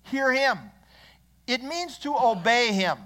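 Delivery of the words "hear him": higher pitch, falling firmly at the end; a measured order to be obeyed; clear command. Acted. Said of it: "It was clearly a command from Almighty God".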